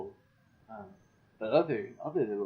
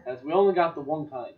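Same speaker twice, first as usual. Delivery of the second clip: put-on Jersey accent; 4 semitones higher, 3 dB louder than usual. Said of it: "turning into a Jersey accent".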